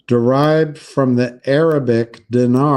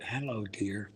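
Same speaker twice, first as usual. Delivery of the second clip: hushed, much softer imitation of an old grandmother; grandmother's soft greeting; 3 semitones lower, 19 dB quieter than usual. Grandmother picking up the phone to her grandson, softly imitated. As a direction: say it softly, the way she said it. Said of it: "I can hear it".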